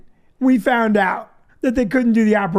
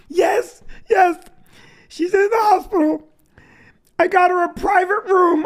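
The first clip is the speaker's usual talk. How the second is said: mock upset wife; 5 semitones higher than usual. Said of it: "hysterically crying".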